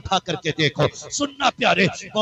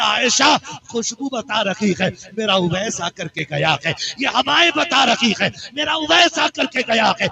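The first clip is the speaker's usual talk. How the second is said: moved outcry; 2 semitones higher than usual. Acted. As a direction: cry it out, overcome with longing. Prophet moved, recognizing Owais.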